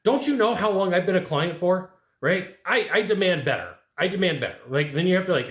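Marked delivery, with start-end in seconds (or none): 0.0-1.9 mock wounded client asking; guilt-tripping client. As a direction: lay the guilt on as the long-time client. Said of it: "here it comes".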